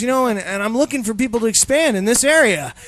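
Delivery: lightly hammed-up recruiter; recruiting pitch. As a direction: friend recruiting for multi-level marketing. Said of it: "And then he goes".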